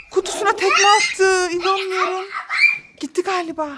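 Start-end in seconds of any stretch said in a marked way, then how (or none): 0.1-2.3 slow words through laughter; laughing disbelief. Real, not acted. Mother laughing at the kicked box, laughing disbelief. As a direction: laugh while telling it.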